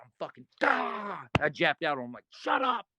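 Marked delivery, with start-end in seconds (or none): 0.0-1.3 frustrated cry. Retold or imitated. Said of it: "I'm losing". 2.3-2.9 high snapped shut up; snapping at the teammate, high; sharp shout. Retold or imitated. Snapping at Bull.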